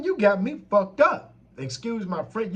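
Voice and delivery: climbing into a high, loud furious rant; flustered yelling. Retold or imitated. To the scamming manager on the phone, heated high yelling. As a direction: boil over, voice cracking up high and loud. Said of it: "You got me flustered".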